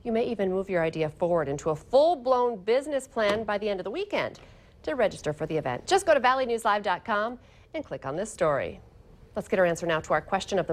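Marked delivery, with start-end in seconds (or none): 0.0-8.8 measured anchor delivery; crisp scripted news delivery; news read. Acted. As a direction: read it as a local morning news story. Anchor reads news copy.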